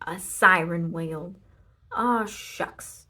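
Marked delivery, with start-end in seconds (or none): 1.9-3.1 sheepish Leroy. A narrator's reading. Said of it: "said the man".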